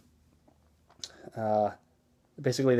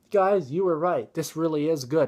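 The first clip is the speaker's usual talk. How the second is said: mock approval; 4 semitones higher than usual. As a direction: play at being won over, pitched up. Kid feigns liking the stuff.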